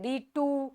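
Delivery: "thee to" scanned softly, weight on "to"; da-DUM rhythm on "thee to"; stress on TO. Shown as a demonstration. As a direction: lean onto "to" after a light "thee". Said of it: "अब ये to यहाँ पे stressed है".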